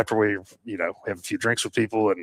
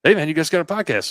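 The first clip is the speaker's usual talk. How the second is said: put-on self-confessed weak Canadian accent, pitched higher and louder; amateur Canadian accent, higher and louder; bad Canadian accent; 8 semitones higher, 5 dB louder than usual. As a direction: do a bad Canadian buddy's greeting. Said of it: "I don't do a good Canadian accent".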